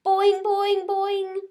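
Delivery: high loud springy boings; frog shouting boing. A narrator's reading. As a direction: bounce and shout. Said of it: "Ogg shouted".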